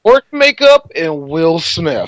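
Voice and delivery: slow, deliberate quote of wife; measured mock-eloquent delivery. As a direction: spell it out slowly, word by word. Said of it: "my wife said it very eloquently".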